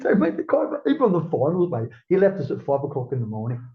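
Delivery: bursting out with the punchline; incredulous excited telling; excited outburst. Real, not acted. Excited retelling of Bruce leaving.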